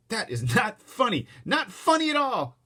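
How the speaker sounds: high, loud, slow scolding; indignant. A narrator's reading. Mother scolding the laughing elevator riders. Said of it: "my mother turned around".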